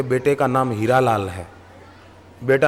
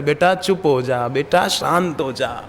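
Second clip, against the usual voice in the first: soothing self-talk. Shown as a demonstration. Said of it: "तो अपने को जरा शांत करे".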